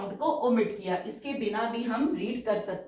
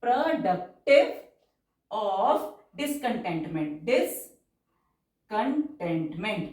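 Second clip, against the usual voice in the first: very slow, drawn-out dictation pace; stenography dictation, stretched syllables; much slower than usual. Shown as a demonstration. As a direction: read it out word by word for shorthand.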